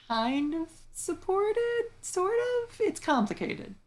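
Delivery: very high, drawn-out hedge; hesitant hedging. Real, not acted. Host hedging on awkward lore, high and drawn-out. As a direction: stretch it out slowly, way up high, unsure.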